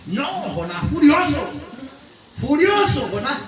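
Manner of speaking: a burst of hammed-up anger on furioso; mild mock fury with a laugh; mock furious. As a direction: play up Jonah's rage, half laughing. Preacher acting out Jonah's fury.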